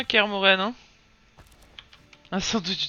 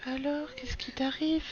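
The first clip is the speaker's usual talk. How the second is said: higher, soft and slow, cooing gently; 4 semitones higher, 10 dB quieter than usual. Real, not acted. Mother cooing softly to her crying baby.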